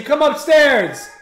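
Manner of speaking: slow, drawn-out call upstairs. Real, not acted. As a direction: stretch it out, calling up the stairs. Calling sister upstairs.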